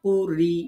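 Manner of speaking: light "r" in কুরি, lips left natural; thin ra. Shown as a demonstration. Teacher warning against rounded lips, light thin "r" in কুরি. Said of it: "ঠোঁট গোল করা যাবে না".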